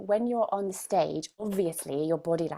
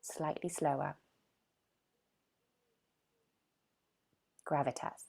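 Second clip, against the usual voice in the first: gravitas; 7 dB quieter than usual. Shown as a demonstration. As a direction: drop the voice down for gravitas. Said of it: "Slightly lower in the voice".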